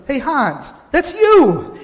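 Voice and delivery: voice of God. Retold or imitated. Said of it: "And he says".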